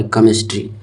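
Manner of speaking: "केमिस्ट्री" starting on a hard k; CH read "क". Shown as a demonstration. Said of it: "क भी होता है".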